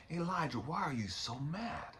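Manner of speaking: hushed, gentle question with a rise; a soft inner voice asking why; quietly voiced God rising on mad. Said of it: "I hear God answering me".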